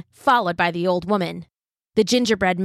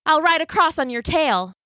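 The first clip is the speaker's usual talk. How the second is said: high cheeky cookie voice; bright little cookie; gingerbread man; 7 semitones higher than usual. A narrator's reading.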